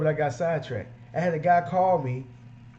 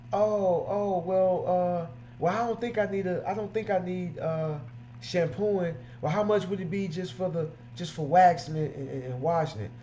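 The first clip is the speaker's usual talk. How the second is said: higher, hesitant, stumbling retreat; customer backing out; 4 semitones higher than usual. Retold or imitated. Customer backing off the detail price, higher and hesitant. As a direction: hedge and fumble to get out of paying.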